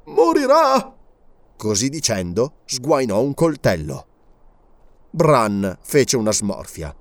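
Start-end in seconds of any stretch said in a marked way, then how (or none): 0.1-0.9 high, loud, trembling with eagerness; bloodthirsty growl. A narrator's reading. Servant drawing his knife, bloodthirsty. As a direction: spit out the death sentence. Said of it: "voce gutturale fremeva per la sete di sangue".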